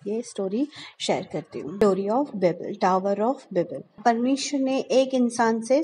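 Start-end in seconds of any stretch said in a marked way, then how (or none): 1.8-4.0 slow title announcement. Shown as a demonstration.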